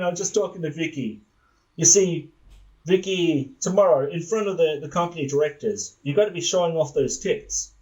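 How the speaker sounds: lightly played sleazy boss. Boss instructs employee before a directors' meeting, mildly sleazy. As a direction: play a sexist boss being sleazy. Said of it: "just gonna play this sleazy".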